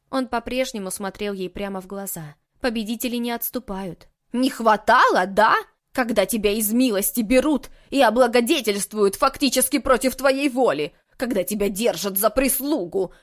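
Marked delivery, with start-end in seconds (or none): 4.3-13.1 loud, bitter grievance; bitter outburst. A narrator's reading. Housekeeper finally vents her grudge, loud and bitter. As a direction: spit out years of resentment. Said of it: "заговорила домоправительница другим тоном".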